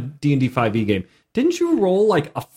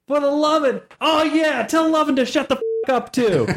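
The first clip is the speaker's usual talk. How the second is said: mock Italian gangster; 11 semitones higher than usual. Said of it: "it was just like".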